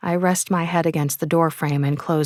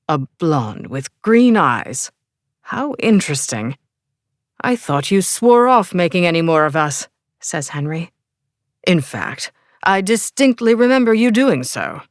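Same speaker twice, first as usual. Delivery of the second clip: put-on English accent; 3 dB louder than usual. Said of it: "with an English accent".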